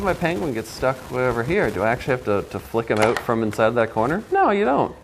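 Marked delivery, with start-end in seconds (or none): 4.3-5.0 emphatic answer. Acted. Answering own question.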